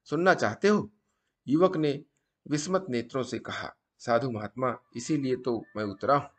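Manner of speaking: deliberate storytelling, pausing between phrases; moral story narration. A narrator's reading. Storyteller passing a sadhu's maxims to viewers, measured emphatic narration. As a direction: narrate like a teaching tale, punching each maxim.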